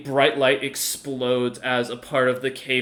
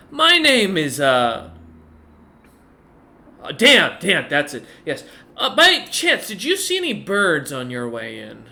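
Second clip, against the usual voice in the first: put-on a cheery, absent-minded old mage who loses his thread; scatterbrained old dwarf wizard; 3 semitones higher, 6 dB louder than usual. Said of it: "this individual kind of smiles and goes".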